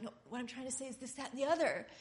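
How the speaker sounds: quick insistent explaining, rising at the end; hurried insistence. Retold or imitated. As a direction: rush to get the point across. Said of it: "and you're like".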